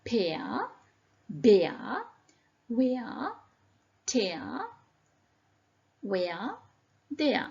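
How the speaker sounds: "Pear", "bear", "tear" each said as eh-ah; different EA pronunciation. Shown as a demonstration. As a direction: list "where" and "there" singly with the eh-ah glide. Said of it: "different pronunciation".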